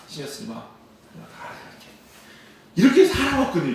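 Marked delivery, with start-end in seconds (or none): 0.1-1.9 soft, low reassurance fading to a whisper; hushed voice of God. Retold or imitated. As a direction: speak as God, gently calming. (하나님의 조용한 속삭임)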